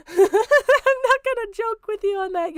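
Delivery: high, slow words through real laughter; laughing. Real, not acted. Streamer laughing at Levi while calling her stupid. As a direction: laugh it out in disbelief.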